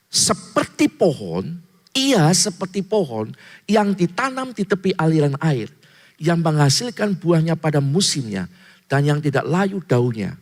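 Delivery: slow, weighty reading of the verse; scripture reading. Acted. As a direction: read the psalm out like scripture. Reads scripture verse aloud.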